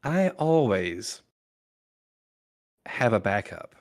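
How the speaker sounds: villain gloating over a hidden backup, slow; smug villain. Acted. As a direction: savor the trick you kept back. Villain reveals his backup.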